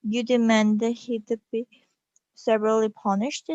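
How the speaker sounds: lightly voiced doubtful cop, rising question; cop's voice. Policeman echoes the queen's demand, mildly sceptical. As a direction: repeat it back half-believing. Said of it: "said the cop".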